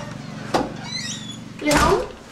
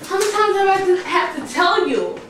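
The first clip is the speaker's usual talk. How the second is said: yelling wife; 10 semitones higher, 10 dB louder, slower than usual. Acted. Wife yelling at drunk husband.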